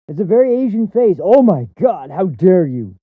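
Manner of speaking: loud, sneering fake shock; mocking loud outrage. Host mocking a critic's outrage, loud and sneering. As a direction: ham up the pearl-clutching then snap.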